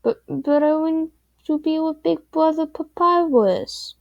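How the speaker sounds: put-on high, pleading little-kid voice; sad little child. A narrator's reading. Small child begging her big brother Papyrus to stay up, sad and pleading. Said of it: "you said sadly".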